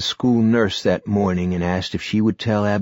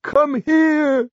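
high, loud hoarse call; hoarse shout; 6 dB louder than usual. A narrator's reading. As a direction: rasp it out loud. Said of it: "Barry's voice was clotted and hoarse".

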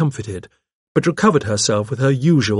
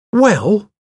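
high, drawn-out resigned opener; sighing; 11 semitones higher, 6 dB louder than usual. A narrator's reading. Secretary about to leave, with a sigh. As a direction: sigh before taking leave. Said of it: "she said with a sigh".

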